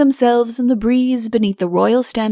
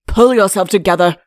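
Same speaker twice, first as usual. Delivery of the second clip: firm, louder command; king scolding his chancellor; stern; 7 dB louder than usual. A narrator's reading. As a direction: snap him out of it sternly. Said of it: "said the king sternly".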